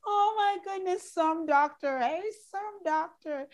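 high, still laughing, words squeezed out; laughing through words. Real, not acted. Host still laughing at her own doctor joke. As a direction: talk while cracking up.

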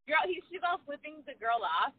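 high, laughing tease. Real, not acted. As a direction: crack up while joking with a friend. Laughing along at friend's story.

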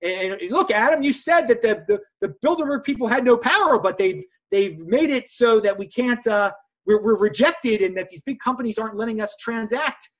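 lightly hammed-up grievance; mock complaining. Imitating rejected creators protesting to Adam, mock complaining. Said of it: "are yelling and screaming, saying".

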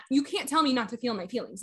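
retold objection, held back from lashing out; restrained retort. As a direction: object evenly, without lashing out. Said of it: "didn't try to lash out at her".

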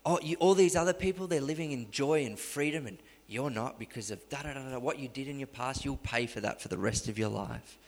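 hushed, needling accuser; the accusing devil on the phone to Liam, hushed; soft accusing voice. Retold or imitated. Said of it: "these little voices come".

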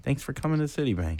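whisper. Acted. Closing scene line.

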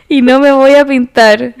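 leer la letra pausadamente, sin cantar; recitado de letra. Shown as a demonstration. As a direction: recitar verso a verso. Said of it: "yo estoy recitando". (declamación casual de una canción)

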